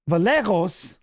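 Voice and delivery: Vallejos with the double L said as a real L: vuh-LEH-hos; with the L's. Shown as a demonstration. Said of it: "but it's two L's".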